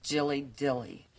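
low, soft, slow admission; reluctant confession. Acted. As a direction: confess it quietly and slowly. Reluctantly confesses embarrassing nickname.

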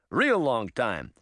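slow, drawn-out tortoise voice. Acted. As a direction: plod through each word.

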